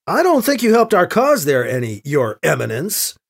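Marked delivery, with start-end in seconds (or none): 2.0-3.2 lightly sarcastic title with questioning lift; a little sarcasm. Acted. Priest to cardinal after he hurt their cause, slightly sarcastic. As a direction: lay slight mockery on EMINENCE. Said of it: "lays a little sarcasm on the last word".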